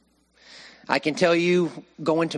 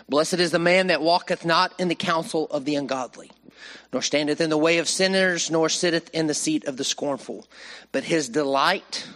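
declaiming the Psalm to the church, slightly louder; scripture reading; 3 dB louder than usual. Acted. Preacher reading Psalm one to the congregation, solemn declamation. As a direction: read it out like holy writ, with weight.

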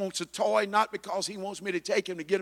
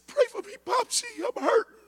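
put-on much higher, small child's pleading voice; little grandson; 14 semitones higher than usual. Grandfather voicing his hurting grandson, high child's plea. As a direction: squeak it up like a hurting little boy. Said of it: "He said".

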